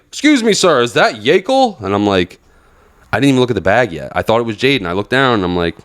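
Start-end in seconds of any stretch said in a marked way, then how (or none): 0.1-1.8 mock high-pitched questioning voice; customer impression. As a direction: imitate the guy butting in, pitched way up. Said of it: "fat dude with his one eye".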